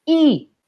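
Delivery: I said high and clear, held a moment; teacher modelling the vowel I; pronouncing the vowel. Shown as a demonstration. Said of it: "y eso también se pronuncia".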